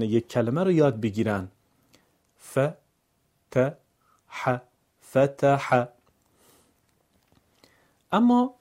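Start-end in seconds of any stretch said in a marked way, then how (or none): 2.4-5.9 ف ت ح separated, then فتح louder; syllable by syllable. Shown as a demonstration. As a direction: break فتح into parts then join. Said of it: "هجا هجا یا بخش بخش".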